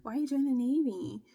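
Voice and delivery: mocking the roommate. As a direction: play the rude roommate prying. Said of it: "she was like".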